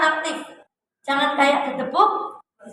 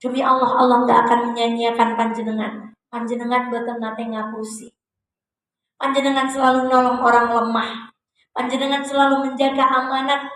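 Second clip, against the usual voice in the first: reassuring Khadijah. Acted. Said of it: "Khadijah matur begini".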